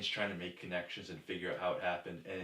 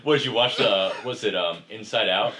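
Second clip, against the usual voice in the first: laughing; 10 dB louder than usual. Real, not acted. Still laughing, teasing.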